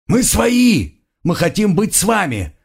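high frantic shouts; shouting. A narrator's reading. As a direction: keep yelling, beaten and desperate. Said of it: "продолжали орать избитые".

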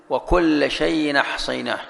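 slow, measured وكل شيء أحصيناه, hamza dropped; recited example. Shown as a demonstration. Sheikh reciting the verse again for the class. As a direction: recite slowly with the hamza moved back.

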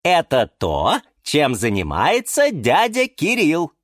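calmly explaining. A narrator's reading. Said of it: "спокойно объяснила им".

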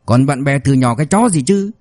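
grind out the threat, then spit the last words; through gritted teeth. Acted. Beaten husband threatening the debt collectors through gritted teeth. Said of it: "nghiến răng nghiến lợi nói".

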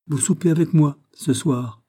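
lifted, smiling royal invitation; gracious smile. A narrator's reading. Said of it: "avec un gracieux sourire". (gracieux, avec un sourire)

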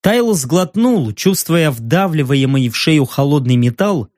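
ordinary delivery

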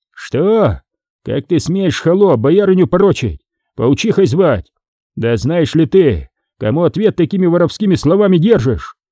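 indignant nobleman's retinue. Acted. Guests set upon Foma over slandering boyarynya, indignant. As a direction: rebuke the insolence, lightly acted.

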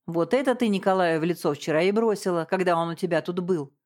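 plain reading voice

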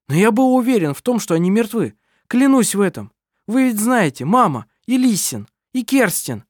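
loud, high protesting voice; agitated shouting. Acted. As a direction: defend yourself in rising panic. Adrian defends himself agitatedly.

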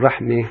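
رحمة with the final a leaning toward e, "rehme"; رحمة in pause with small imala. Shown as a demonstration. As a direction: stop on رحمة with the fatha bent toward kasra. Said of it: "عند الوقف أقول".

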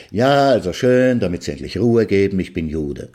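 exasperated giving in. Acted. Man gives in to nagging. (genervt nachgebend, erst laut und langsam, dann leise)

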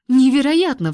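outraged exclamation; indignant exclamation. Acted. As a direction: throw it out in outrage. She throws up her hands.

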